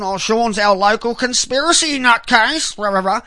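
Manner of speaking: sneering mock of critics. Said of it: "not many people want to hear it".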